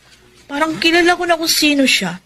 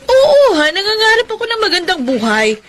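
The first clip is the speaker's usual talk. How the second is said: angry outburst; 8 semitones higher than usual. Acted. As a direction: snap back in hurt anger. Woman angrily answers her ex. (galit na sigaw, may mapait na tawa)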